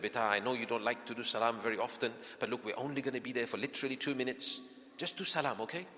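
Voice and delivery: put-on soft, gentle coaxing of a child; coaxing parent. Parent coaxing child before visit.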